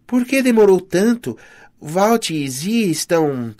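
high-pitched, pressing questions; urgent questioning. A narrator's reading. Urgently questions friend who arrived late. (perguntas urgentes, em tom agudo)

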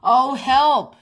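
high, loud cry for help; shout. A narrator's reading. Chip yells for help during the crash, high and loud. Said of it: "shouted Chip".

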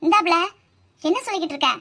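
scolding. Acted. Husband scolding wife for screaming at night. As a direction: snap at her for screaming.

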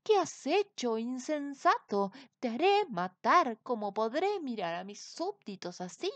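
king raging at the wizard; furious king. A narrator's reading. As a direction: threaten him, then call the guards. Furious king calls guards.

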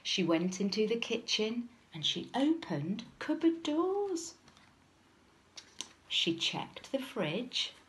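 measured storybook reading; lilting narration for small children; children's story narration. A narrator's reading. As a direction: tell it as a picture-book story. Reads story aloud to children.

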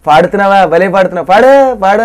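imitating a drunk egging on a singer; mock-merry praise, rising on the last words; tipsy cheering. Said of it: "అని మైకంలో ఇలా చప్పట్లు కొట్టి వింటున్నట్టు నవ్వుతో". (మైకంలో మెచ్చుకుంటున్నట్టు అనుకరణ)

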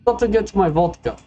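put-on Russian accent. Customer excusing himself for vodka, mock Russian accent. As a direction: play up a light Russian accent. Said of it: "I don't know why I made him Russian".

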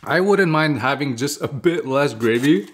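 talking between bites; chewing while talking. Real, not acted. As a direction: mouth partly full. Seen 0: Ate fries at -4s; chews and talks with food through 2.5s.

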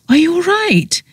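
a friend anxiously checking on you; concerned. A narrator's reading. Friend asks after released prisoner, concerned.

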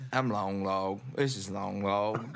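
Moody voice. Shown as a demonstration. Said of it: "talk like this as a Moody voice".

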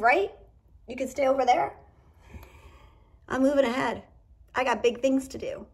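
a hint of a proud queen declaring herself; queen speaking. Reading voicing the queen in her boat, lightly proud.

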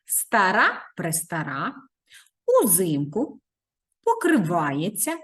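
each word slow with its stress clearly marked; teacher models correct word stress for pupils; careful stress. Shown as a demonstration. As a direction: pronounce старого, престарого, пам'ятаю slowly, leaning on the stressed syllable. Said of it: "правильно ставимо наголос".

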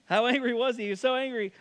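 hammed-up late-night setup; Johnny Carson setup. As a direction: set up the punchline like a late-night host. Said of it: "It's a Johnny Carson setup".

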